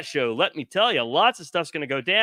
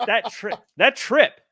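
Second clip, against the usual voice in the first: wrestling promo voice; 2 semitones higher than usual. Pretend.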